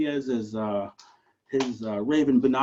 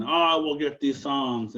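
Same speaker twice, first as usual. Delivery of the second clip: eagle voice; slower than usual. Acted. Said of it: "opened up his giant wingspan".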